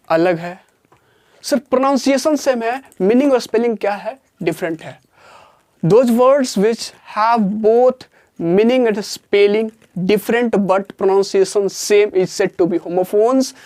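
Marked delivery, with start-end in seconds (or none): 5.8-13.5 very slow, word-by-word dictation pace; reading a definition aloud slowly for notes. Shown as a demonstration. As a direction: spell it out slowly so students can write.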